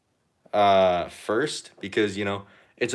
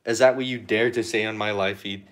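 mock outrage. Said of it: "just messing with you".

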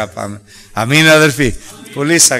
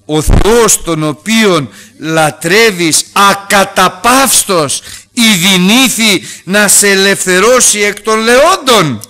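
tearful king; 6 semitones higher, 4 dB louder, slower than usual. Acted. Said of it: "κλαίγοντας".

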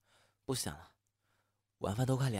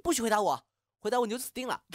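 higher, louder embarrassed warning; flustered threat; 10 semitones higher, 6 dB louder, faster than usual. Acted. After confessing love, loud flustered threat. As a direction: threaten him to hide the embarrassment.

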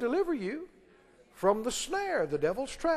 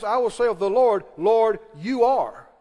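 declaration of faith; 3 dB louder, slower than usual. Shown as a demonstration. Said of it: "you can say it like this".

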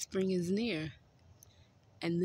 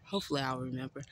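out of breath; 4 semitones lower, 4 dB quieter, faster than usual. Real, not acted. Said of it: "I'm sorry I'm out of breath".

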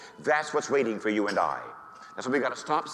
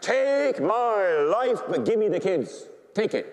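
high, stretched-out plea in overwhelming joy; ecstatic cry; 7 semitones higher than usual. Retold or imitated. Dying priest offering his life to God, ecstatic cry. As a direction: cry it out high, first words drawn long.

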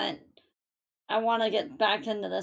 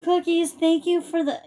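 excited thanks; 5 semitones higher, 4 dB louder than usual. Real, not acted. Thanking viewer for gifted subs.

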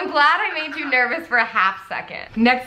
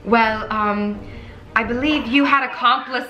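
put-on British accent. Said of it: "We're gonna do the British".

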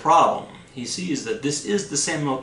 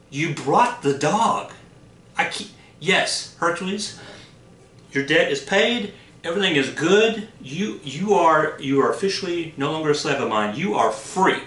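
astonished king; 3 semitones higher than usual. Acted. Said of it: "King Eurystheus is like".

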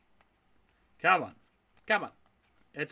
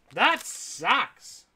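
disappointed; 4 semitones higher, 3 dB louder than usual. Real, not acted. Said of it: "That's how disappointed I am".

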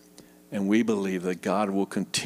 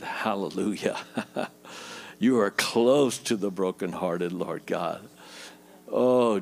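closing prayer. Acted. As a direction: pray over the hurting congregation.

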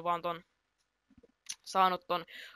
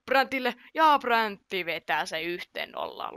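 raised, loud burst easing into drawn-out words; stretched, triumphant match commentary; excited goal call; 5 dB louder, slower than usual. Real, not acted. Scores the opening goal.

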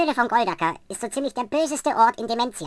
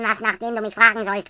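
ordinary delivery, nothing marked

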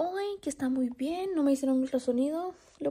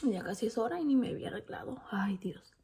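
hurried whisper; 3 semitones lower, 6 dB quieter than usual. Real, not acted. Rushing, whispering.

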